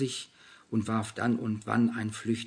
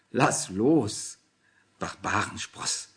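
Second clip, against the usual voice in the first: laughing; slower than usual. A narrator's reading. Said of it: "lachte Anna".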